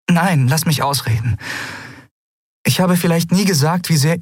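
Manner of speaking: heroine, urgent; insistent young woman. Acted. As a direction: insist he let her finish. Andriel insists.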